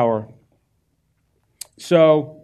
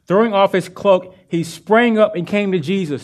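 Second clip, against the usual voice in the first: louder, with stress on throwing and sprang; excited retelling; 4 semitones higher, 5 dB louder than usual. Shown as a demonstration. Preacher rereads the verse louder with excitement. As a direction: lean into "throwing" and "sprang" with rising fervor. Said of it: "The dude can't see".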